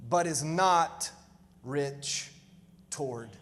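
preacher dropping to a hush for Jesus' final words; hushed solemn line. Acted. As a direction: let the key line sink into quiet gravity. Climactic line of the parable.

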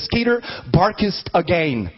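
put-on slow, solemn old-English command; mock Jesus command. Jesus raising the dog, slow mock command. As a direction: raise the dog with a slow hammed-up decree. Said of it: "And he says".

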